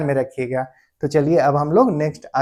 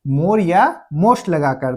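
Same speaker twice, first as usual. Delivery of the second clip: slow, deliberate; much slower than usual. Shown as a demonstration. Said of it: "तो उनका हम लोग कैसे बनाते हैं?".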